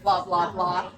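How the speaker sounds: slow, grave mock boast that trails into a laugh; pompous bragging. Mocking the serious podcaster guy bragging at an event, slow and pompous. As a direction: puff it up, very slow and self-important. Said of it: "And he's, like, going into".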